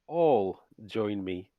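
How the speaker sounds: slow, polite host's invitation; courtly vampire invitation. Acted. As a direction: invite them graciously, drawn out. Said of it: "he says".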